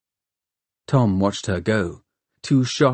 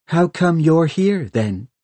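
taunting question, pitched up then dropping; mocking; 7 semitones higher than usual. A narrator's reading. Hester challenges Tom's faith in Valentine, mocking. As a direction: needle him with the question. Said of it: "mocking him".

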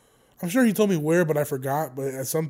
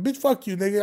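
mock angry retort; 3 semitones higher than usual. Retelling a spat with a coworker, mock indignant. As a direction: toss back a mock outraged insult.

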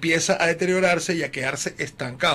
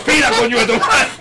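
laughing mock curse; 6 semitones higher, 7 dB louder than usual. Wife's angry reply.

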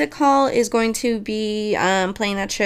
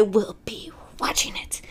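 whisper; 7 dB quieter than usual. Real, not acted. Excited aside about watching film.

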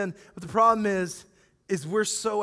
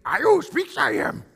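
lightly voiced Yoda, "who" pitched up; a hint of Yoda's inverted phrasing; 4 semitones higher than usual. Preacher joking the Greek sounds like Yoda, light Yoda voice. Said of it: "It sounds like Yoda speaking".

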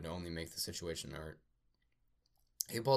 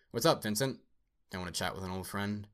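roaring; 2 semitones higher, 4 dB louder than usual. Acted. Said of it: "The dead android roared".

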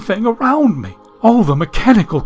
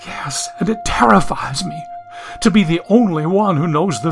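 whispered, a frightened confession; terrified whisper. Acted. Millicent confesses knowing the future frightens her, whispered. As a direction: let the fear drop to a whisper.

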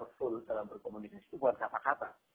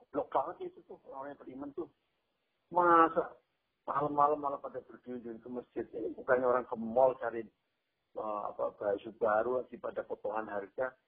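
mocking gossip. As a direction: sneer at the faithful behind their backs. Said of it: "Mengejek, melanjutkan ejekan itu".

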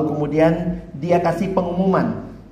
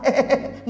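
landlady laughing; 6 semitones higher than usual. Acted. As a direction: laugh at the silly boast. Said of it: "Ibu kosnya ketawa".

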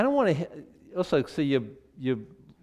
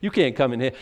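louder, cocky taunt; a touch of playground taunting; mock trash talk; 4 dB louder than usual. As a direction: shove it back in his face. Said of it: "you slap it right back in his face".

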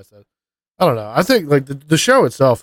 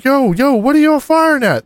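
much higher, alarmed yo yo; a startled grunt calling out; high-pitched alarmed question; confused soldier; 11 semitones higher than usual. Retold or imitated.

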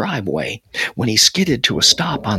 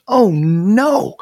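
high, drawn-out cry of dismay; alarmed yell; 9 semitones higher, 4 dB louder than usual. A narrator's reading. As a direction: yell it, pitch way up. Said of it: "Harry yelled".

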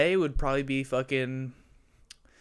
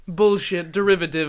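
mock film critic; 3 semitones higher, 5 dB louder than usual. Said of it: "that sounds like".

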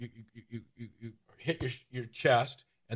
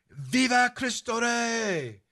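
high, slow, drawn-out rallying yell; battle cry; 11 semitones higher, much slower than usual. Retold or imitated. Cristeros answering revolutionaries with a high, slow battle cry. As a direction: cry it out like riders charging in. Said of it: "the Cristeros would yell out".

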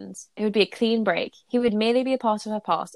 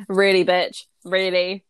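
louder, fed-up aside; exasperated; 6 dB louder, slower than usual. Real, not acted. Reader scolding Hermione mid-chapter, loud and exasperated. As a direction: call the character out in disbelief. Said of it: "reader's aside at the character".

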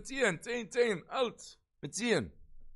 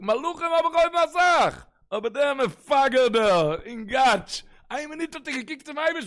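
excited mother; 8 semitones higher, 8 dB louder, much slower than usual. Retold or imitated. Mother telling family her son looked at her, excited high and slow. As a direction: voice jumps up high and loud, drawn out slowly.

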